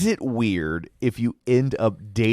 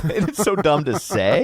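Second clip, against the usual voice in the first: laughing; 6 semitones higher than usual. Real, not acted.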